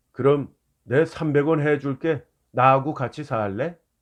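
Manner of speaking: plain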